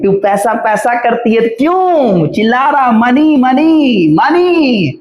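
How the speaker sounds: mock Akshay Kumar yell. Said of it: "Akshay Kumar कह रहे हैं".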